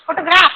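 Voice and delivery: फोटोग्राफ with weight on ग्राफ; stress on graph. Shown as a demonstration. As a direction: lean on the last syllable of फोटोग्राफ. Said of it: "stress किस पे". (फोटोग्राफ में ग्राफ पर ज़ोर)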